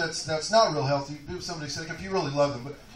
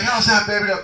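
mock-sweet lover's query, raised; tender "baby" check-in; 4 semitones higher, 8 dB louder than usual. Standup playing himself asking his lady in bed, mock-sweet. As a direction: coo it to the lady, playing it big.

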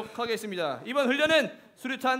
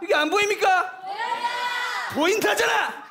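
high shouted drill yell; instructor yelling; 9 semitones higher, 4 dB louder than usual. Acted. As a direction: bark it like a drill sergeant.

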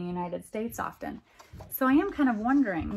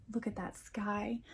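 hushed, wondering whisper; 8 dB quieter than usual. Real, not acted. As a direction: whisper in awe at the picture. Awed aside at picture.

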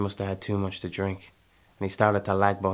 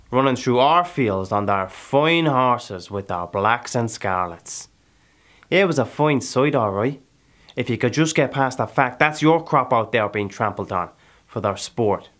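raised, heated indignation; indignant; 3 semitones higher, 5 dB louder than usual. Acted. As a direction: push it louder, resentful of the landowners. Bitter speech about trampled land.

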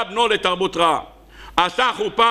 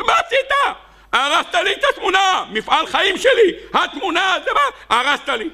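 much higher, wailing with laughter; distraught painter; 11 semitones higher than usual. Acted. Painter wailing at friend who smashed the picture, high and laughing. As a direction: wail over the wrecked life's work.

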